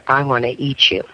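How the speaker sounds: hint at a deep male voice; deep baritone voice. Retold or imitated. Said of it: "in a deep baritone voice".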